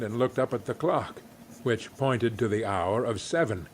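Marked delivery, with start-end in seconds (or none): none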